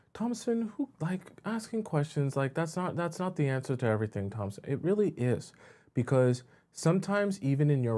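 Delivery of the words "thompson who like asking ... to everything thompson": skeptical viewer voice. Retold or imitated. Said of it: "and then you're thinking".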